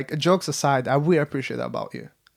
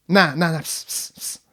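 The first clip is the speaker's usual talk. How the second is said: hushed dismissive nah and pss sounds; impression of friend dismissing; 4 dB louder than usual. Imitating friend waving off party chatter, hushed. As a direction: wave people off with little hisses. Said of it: "this is my impression of you".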